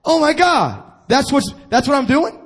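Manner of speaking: high, startled mock gasp of realisation; shocked realisation. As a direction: act the client suddenly seeing it. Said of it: "They go".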